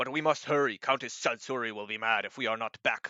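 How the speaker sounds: big giant voice shouting, calling out loudly. Voicing a giant who calls back urging haste: shouting giant. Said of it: "shouting back and says".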